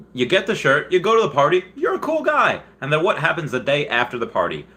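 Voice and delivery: high, fast stand-up delivery; lightly voiced Seinfeld routine; Seinfeld bit. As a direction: riff it like Jerry doing stand-up. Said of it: "And he says".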